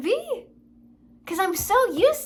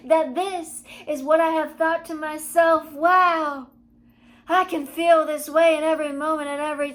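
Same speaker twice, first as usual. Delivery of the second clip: blissful; 5 dB louder than usual. Retold or imitated. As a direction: gush like you're floating. Retold blissful high.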